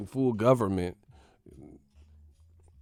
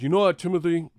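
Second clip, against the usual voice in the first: mock white parent; 6 semitones higher, 4 dB louder, faster than usual. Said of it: "They be like".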